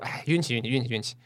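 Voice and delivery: 示范朋友间赢了之后的客套; 压低一点嗓音，连说运气; 故作谦虚. Shown as a demonstration. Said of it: "如果想谦虚，". (轻描淡写地谦让)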